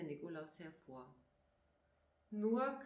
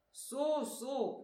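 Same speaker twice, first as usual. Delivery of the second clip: loud, doubtful grumble, pitched up at first; grumbling Nikolaus; 5 semitones higher, 6 dB louder than usual. A narrator's reading. Nikolaus doubts little Flori's quick yes, grumbling. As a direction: grumble it sceptically, with force. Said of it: "brummte der Nikolaus".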